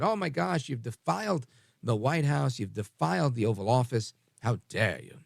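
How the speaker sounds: lightly voiced scandalised scolding; mock outrage, slowing on the accusation; Greta Thunberg. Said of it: "in their Greta Thunberg voice".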